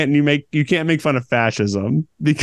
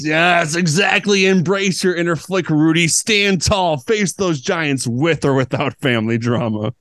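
croissant voice; 3 semitones higher than usual. Acted. Croissant character voice.

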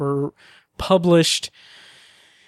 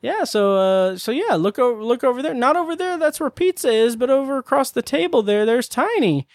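put-on high, sing-song New England accent; hammed-up New England tour guide; 7 semitones higher than usual. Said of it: "try to do a New England accent".

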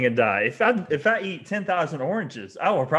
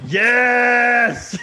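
excited yes; 7 semitones higher, 8 dB louder than usual. Real, not acted. Guessed the right book.

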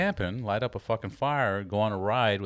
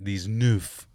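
put-on French teacher's accent. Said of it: "he said it".

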